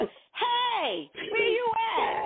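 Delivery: very high mock holler; acted screaming across. Lost spouse hollering across the love map, acted screaming. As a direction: call out as if to someone far away. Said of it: "y'all screaming across the".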